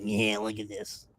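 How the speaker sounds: hushed murmur sinking to a whisper; Gary. Retold or imitated. Podcaster imitates someone looping a clip, hushed and secretive. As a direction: drop low and soft, then whisper. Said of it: "he would loop it and like".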